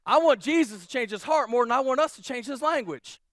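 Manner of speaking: said again with weight on want; restated emphasis. Shown as a demonstration. Pastor repeating his key line to the congregation, with emphasis. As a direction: land the line a second time. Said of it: "Let me say that again".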